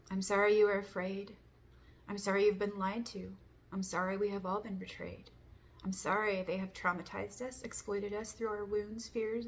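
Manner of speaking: measured recital with firm openings; forgiveness litany. Real, not acted. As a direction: recite each apology as a deliberate prayer.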